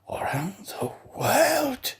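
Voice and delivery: slow, breathless whispered question; murmured whisper. A narrator's reading. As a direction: whisper it in stunned disbelief. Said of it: "he murmured".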